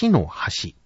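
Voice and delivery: 橋の端 recalled as the earlier example's pitch; accent demo. Shown as a demonstration. Teacher recalling the first example for trainees, model reading. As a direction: model 橋の端 with the bridge-then-edge pattern. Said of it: "先ほどは".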